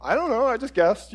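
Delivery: brushing it off through a laugh; chuckling, feigned innocence; laughing dodge. Retold or imitated. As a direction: laugh while you shrug it off. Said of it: "we're all like".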